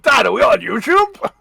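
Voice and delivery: put-on excited kid interrupting the recording. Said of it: "It's like".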